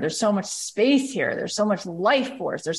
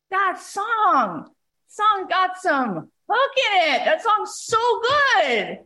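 high-pitched, gushing mock praise; imitated excitement; 11 semitones higher, slower than usual. Passer-by raving to the busker about his song, excited. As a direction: stretch it out, pitched up in amazement.

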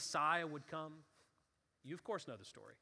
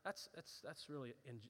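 mildly annoyed; 4 semitones lower, 10 dB quieter than usual. Pretend. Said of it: "not just annoyed, not just".

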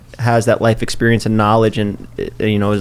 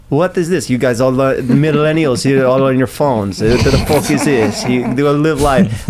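mock German videographer. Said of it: "And he goes".

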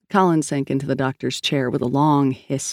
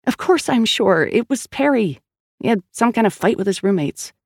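higher, insistent frustrated woman; Sal's voice; 6 semitones higher than usual. A narrator's reading. Sal insisting to Collins and the doctor, higher and exasperated. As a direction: push through the story, annoyed.

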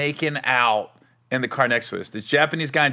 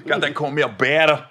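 lightly voiced rapper hook; a hint of Bay Area rapper; 2 semitones lower than usual. Comic repeating his hook, light rapper impression. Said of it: "forty is more like this".

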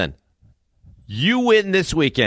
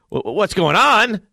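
mock yell; 6 semitones higher than usual.

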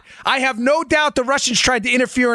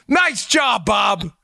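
hammed-up sarcastic praise, pitched up and shouted; mock Mueller cheering the useless swap; 3 semitones higher, slower than usual. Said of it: "I can be a sarcastic wise guy".

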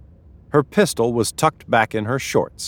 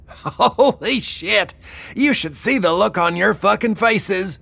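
bellowing; 12 semitones higher than usual. A narrator's reading. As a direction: roar it out, gloating. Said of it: "she bellowed".

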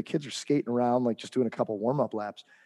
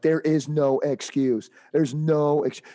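slow, louder words; firm slow rebuke; 3 semitones higher, 3 dB louder, slower than usual. Retold or imitated. Coach rejecting the dad's excuse, firm slow rebuke. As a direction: lay it down flat. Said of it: "I'm like".

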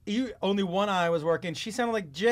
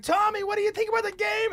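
mock reporter question; 5 dB louder than usual. Buddies mock-interviewing passed-out friend.

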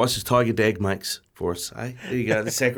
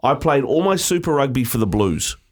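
clue read. Shown as a demonstration. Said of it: "Here is Who Am I clue number one".

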